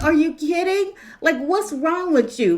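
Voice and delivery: acted incredulous retort. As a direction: challenge them in disbelief. Acts own disbelieving reply.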